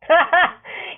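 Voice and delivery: high light giggle. A narrator's reading. Liyuf watching the teasing, giggling high. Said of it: "Liyuf giggles".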